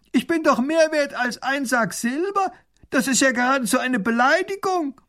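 high, loud offended little ruler; pompous little duke. Acted. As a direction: demand your worth with wounded pride.

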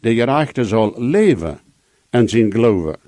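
"leven" set apart and emphasized; stress on LEVEN. Shown as a demonstration. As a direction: put the weight on "leven", then drop away. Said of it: "de betoning op dat leven".

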